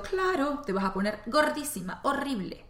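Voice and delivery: a hint of a scolding grandmother, sharp high start on Claro; lightly mock a disapproving grandma; judging grandmother. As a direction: grandmother scolding her granddaughter for skipping training, lightly judgmental. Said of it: "escuchaba la voz de mi abuela diciendo".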